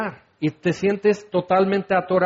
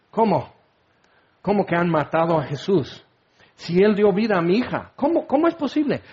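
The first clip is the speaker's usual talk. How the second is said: shocked disbelief. Acted. Jairo hears Jesus was killed.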